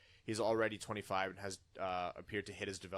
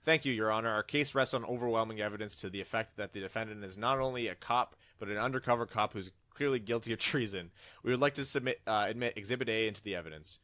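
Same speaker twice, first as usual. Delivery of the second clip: louder, pompous prosecutor; mock prosecutor; 5 dB louder than usual. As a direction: argue the case like a grandstanding lawyer.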